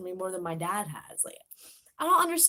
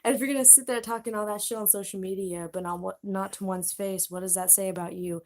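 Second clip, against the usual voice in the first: bratty; 6 semitones lower than usual. Retold or imitated. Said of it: "I was like".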